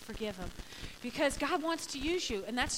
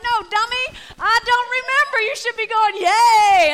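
high, mock-exasperated shouting; exasperated retort; 9 semitones higher, 16 dB louder than usual. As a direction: shout it at someone who won't get the point, ending in a cheer. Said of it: "And I'm like".

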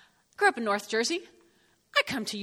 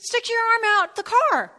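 loud order; 10 semitones higher, 6 dB louder than usual. Retold or imitated. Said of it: "and he says".

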